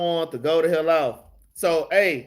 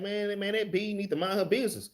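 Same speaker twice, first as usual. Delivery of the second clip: retold muttered curse; 8 dB quieter than usual. Venting to viewers about a nosy coworker, muttered quietly. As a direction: grumble it half to yourself, not yelling. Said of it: "I wasn't yelling or nothing".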